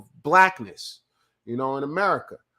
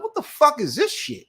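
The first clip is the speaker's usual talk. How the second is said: much higher, squeaky incredulous outburst; retold disbelief; 13 semitones higher than usual. To the agency clerk, a far higher incredulous outburst. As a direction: push the disbelief way up in pitch.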